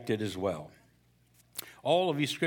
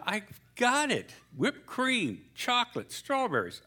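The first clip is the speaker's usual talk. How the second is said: higher, slow, deliberate recital; husband reciting; 10 semitones higher, slower than usual. Acted. Pastor voices the husband reciting the order. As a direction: repeat the list slowly to prove it.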